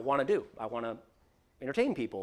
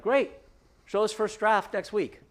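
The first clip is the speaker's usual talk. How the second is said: mock eager; 9 semitones higher, 7 dB louder than usual. Executives accept pitch eagerly.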